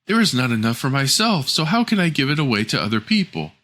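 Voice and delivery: lightly high, snippy refusal; selfish refusal. Acted. Rude daughter refuses the dwarves, lightly snippy. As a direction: brush them off. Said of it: "she replied".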